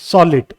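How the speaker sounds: solid, stressed on SOL; stress on first syllable. Shown as a demonstration. Teacher showing learners first-syllable stress, stress on SOL in solid. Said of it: "first syllable पे stress".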